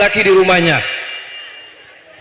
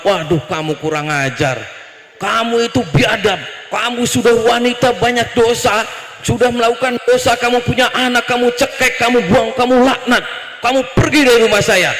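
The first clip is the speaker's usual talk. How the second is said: Nabi Musa raging. Acted. Prophet casting out a confessing woman, acted anger. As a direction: pile up accusations, ending in a dismissal. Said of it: "Nabi Musa langsung ngamuk".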